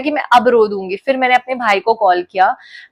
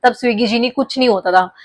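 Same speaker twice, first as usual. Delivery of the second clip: retold tearful plea; 2 semitones lower than usual. To her brother on the phone, a mild retold tearful plea. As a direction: mildly relive crying while begging for the uniform. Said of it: "मैं उसको रोते रोते बोल रही हूँ".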